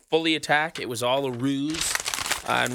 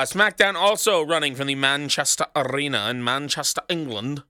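half-hearted attempt at a British English accent; bad English accent; 4 semitones higher than usual. Shown as a demonstration. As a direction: try an English accent and botch it. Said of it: "That's a horrible accent".

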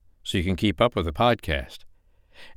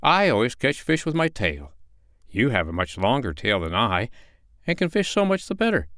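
sly fox; 4 semitones higher than usual. Acted. Fox voiced in story.

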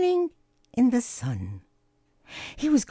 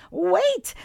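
higher, urgent call; sudden little cry to stop him; exclaiming; 9 semitones higher than usual. A narrator's reading. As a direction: call out quickly before he vanishes. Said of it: "exclaimed Cooper".

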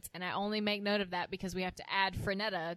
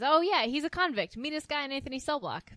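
lightly voiced Suzanne; 6 semitones higher, 5 dB louder than usual. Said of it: "she says".

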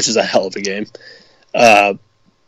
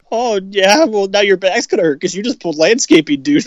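lightly voiced movie bully, pitched up; higher-pitched movie-quote voice, a touch mocking; mock bully retort; 6 semitones higher than usual. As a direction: throw it back as a taunting retort.

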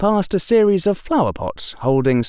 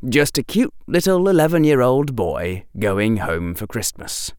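ordinary delivery

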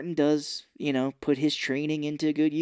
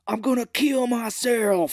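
high, slow melodramatic wail; hammed-up threat; 9 semitones higher, 4 dB louder, slower than usual. Host mimics man on rooftop, slow high melodrama. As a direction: drag it out over the top. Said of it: "then he's like".

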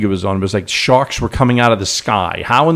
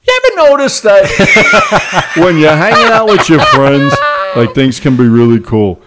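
put-on baby voice; 2 semitones higher, 5 dB louder than usual. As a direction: squeal it like a little kid. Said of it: "he has an inner little baby voice".

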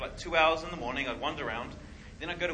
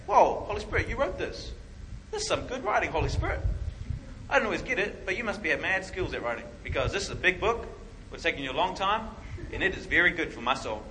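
enthusiastic praise; 3 semitones higher, 3 dB louder than usual. Retold or imitated. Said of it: "So you're saying".

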